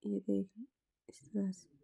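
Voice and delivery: very soft whispered showing. Real, not acted. Teacher whispering to viewers while showing the finished edge. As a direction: whisper it as you show the stitch.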